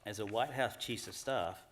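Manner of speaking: usual speaking voice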